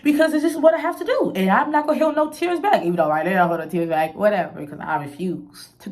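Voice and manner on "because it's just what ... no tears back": laughing. Real, not acted. Laughing after her quote.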